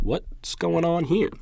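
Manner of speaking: high, drawn-out mock bewilderment; acted-out baffled viewer; puzzled reaction.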